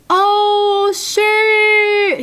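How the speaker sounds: high, loud joyful yell; screaming with joy. Retold or imitated. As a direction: shout it like you just won the lottery. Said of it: "he kept screaming".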